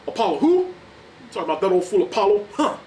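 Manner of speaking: loud, fast scornful taunt; mocking Clubber Lang. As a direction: sneer at the old fool. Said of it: "he's all like".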